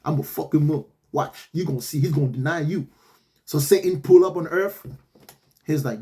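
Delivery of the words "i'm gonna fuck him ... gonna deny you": low, soft, scheming mock Lucifer. Lucifer promising God to break Job, low and sly. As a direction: mutter it like a sly accomplice. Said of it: "And Lucifer was like".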